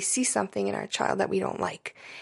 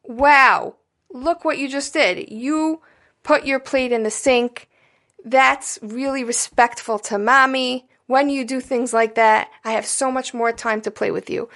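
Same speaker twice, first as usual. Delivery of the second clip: put-on excited praise to a child; 3 semitones higher than usual. Shown as a demonstration. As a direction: cheer the child on for a small good deed. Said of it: "you say".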